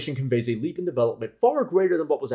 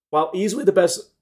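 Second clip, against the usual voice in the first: voice crack; 4 semitones higher than usual. Real, not acted. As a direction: voice cracking on best. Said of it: "sorry for that voice crack".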